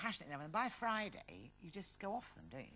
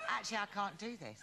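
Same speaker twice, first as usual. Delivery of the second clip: laughing quote. Retold or imitated. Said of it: "I just went".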